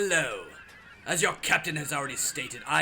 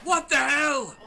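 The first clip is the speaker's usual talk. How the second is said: startled shout; 8 semitones higher, slower than usual. Acted. Miguel reacts to attack.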